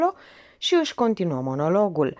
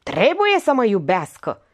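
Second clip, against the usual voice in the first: cry out; 4 semitones higher, 6 dB louder than usual. Acted. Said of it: "strigă femeia".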